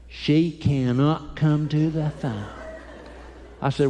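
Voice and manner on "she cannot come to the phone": proud little man. Retold or imitated. Young son on the phone claiming he's in charge, slow and proud. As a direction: puff up like the man of the house.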